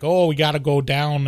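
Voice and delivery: hammed-up Chicago accent; quick sample of broad Chicago talk. Shown as a demonstration. Explaining to a co-host, Chicago accent. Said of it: "What's a Chicago accent sound like?".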